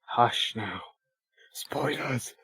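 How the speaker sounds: lightly acted, hushed reply; acted exchange. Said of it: "Look at that acting".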